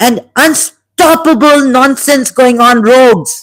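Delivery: shouting. Speaker in a religious lecture, raising his voice to shout. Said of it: "Sorry, I have to shout".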